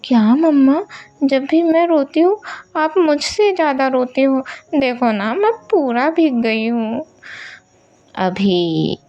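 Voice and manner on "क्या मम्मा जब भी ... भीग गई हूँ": put-on higher childlike whine; a soaked girl scolding her mama; mock-annoyed child voice; little girl complaining. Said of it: "बोलती है".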